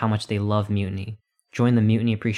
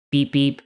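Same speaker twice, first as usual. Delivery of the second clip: horn beeps; 3 semitones higher, 3 dB louder than usual. A narrator's reading. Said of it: "booms a giant celestial bus horn".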